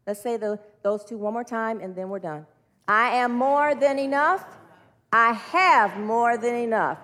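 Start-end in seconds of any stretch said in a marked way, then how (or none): 2.9-7.0 slow group-led declaration; deliberate, drawn-out affirmation; leading affirmations. Acted. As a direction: say it slowly for the room to join. Leads closing group affirmation.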